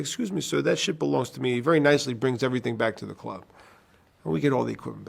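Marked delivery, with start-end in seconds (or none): 0.0-1.5 quiet menace. Retold or imitated. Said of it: "I say".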